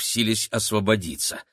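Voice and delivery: usual speaking voice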